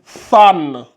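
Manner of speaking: San called out loud and clear; loud model sound. Shown as a demonstration. Teacher calls out San loudly for learners. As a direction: announce San loudly to the class. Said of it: "je vais arrêter de crier avec les phonétiques".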